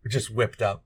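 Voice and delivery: ordinary delivery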